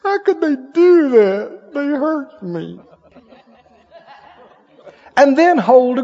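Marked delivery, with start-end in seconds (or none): 0.0-2.8 slow, high whiny complaint with a fake cry; hammed-up self-pity, drawn out; mock whining. Preacher mocking a wounded churchgoer, slow whiny mock sob. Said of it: "if you're always hollering".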